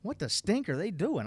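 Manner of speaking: baffled. Retold or imitated. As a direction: mutter it like you can't make sense of it. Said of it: "And I'm going".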